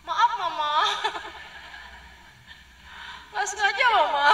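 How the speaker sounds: put-on high, timid child with a giggle; small child apologizing. Child apologizing to an angry mother, timid and high. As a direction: play the sorry little kid. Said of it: "Anaknya akan yang gini".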